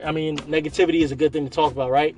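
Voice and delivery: dry mock enthusiasm; sarcastic. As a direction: say it like you obviously don't mean it. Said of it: "I'm being sarcastic".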